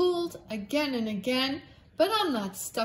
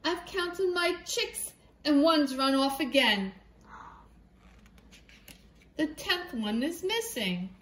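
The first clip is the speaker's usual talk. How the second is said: worried hen; 3 semitones higher than usual. Acted. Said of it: "squawked the hen".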